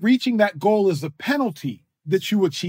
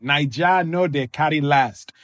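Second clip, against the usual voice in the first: Naija no dey carry last in a Nigerian pidgin lilt; Nigerian accent; 2 semitones lower than usual. Shown as a demonstration. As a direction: say it like a Lagos local, Nigerian accent. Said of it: "You say it with the Nigerian accent".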